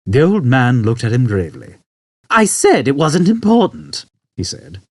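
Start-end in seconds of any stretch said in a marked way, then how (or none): 2.3-4.1 put-on high, slow old man; grave old man. Old man to Arthur, high, slow and grave.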